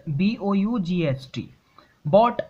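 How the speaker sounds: ordinary talk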